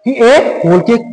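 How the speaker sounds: teacher stressing "whole" in class. Shown as a demonstration. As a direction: hit "whole" hard and drag the line. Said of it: "इस बात पे जोर दे रहा है".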